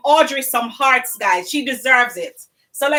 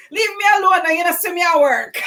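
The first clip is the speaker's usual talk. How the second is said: higher, playful imitation of a friend snapping; mock Audrey cussing; 5 semitones higher, faster than usual. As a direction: play her brushing you off, teasing. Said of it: "not in those exact same words".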